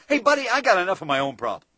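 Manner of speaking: loud, irritated clerk yelling back; rude shout. Retold or imitated. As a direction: brush the customer off. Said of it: "he shouts out".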